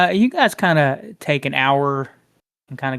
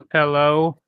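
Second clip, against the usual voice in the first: into a fan; 5 dB louder than usual. Shown as a demonstration. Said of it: "talking through a fan".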